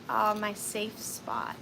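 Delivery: slow, soft sigh of contentment; daughter's sleepy words, softly; soft quoted child. Retold or imitated. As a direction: breathe it out gently, slowly. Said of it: "and she said".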